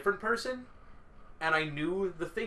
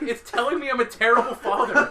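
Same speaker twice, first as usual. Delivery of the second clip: high, loud, laughing through it; hammed-up loud distress; mock distressed yell; 7 semitones higher, 8 dB louder than usual. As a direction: act out a rattled player yelling. Acted hallucinating player, quarrel.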